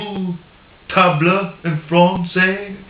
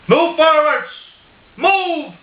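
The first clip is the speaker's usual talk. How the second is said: much higher, mock-exasperated Irish accent; frustrated Irish shout; 9 semitones higher than usual. Paddy Irishman yelling at the spider to move, in a higher Irish accent. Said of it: "I'll do it in an Irish accent".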